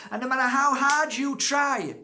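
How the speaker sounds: high, loud, laughing emphasis on hard. Real, not acted. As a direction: laugh through the big point. Preaching, laughing peak.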